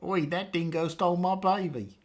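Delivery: lightly exaggerated Australian accent; hammed-up Australian impression; bad Australian accent. Shown as a demonstration. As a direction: put on a deliberately terrible Aussie accent. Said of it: "do it with my worst possible impression of the accent".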